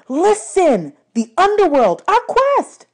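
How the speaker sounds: loud, pleading urgency; urgent shouting. A narrator's reading. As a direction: shake her awake with words. Percy urging her.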